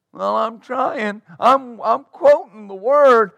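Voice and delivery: mock whining, high and drawn out; whiny. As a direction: plead weakly like you are barely trying. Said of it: "Are you quoting it like that?".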